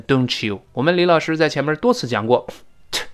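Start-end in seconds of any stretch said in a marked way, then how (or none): 0.0-0.6 "don't you" with t+y turned into a ch sound; t and y merged. Shown as a demonstration. Teacher shows students how t plus y links, merged ch sound. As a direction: say "don't you" as "don-chu". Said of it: "当然变成don't you".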